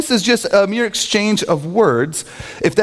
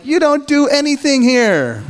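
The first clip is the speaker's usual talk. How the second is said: high-pitched mock outburst; inner resentment; 9 semitones higher than usual. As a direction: act out silent indignation at a coworker. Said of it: "On the inside, you're like".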